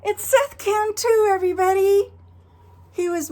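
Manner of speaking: high, loud laughing reveal; laughing surprise. Real, not acted. Host laughing loudly as her friend is revealed to the kids. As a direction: burst out laughing as you unmask him.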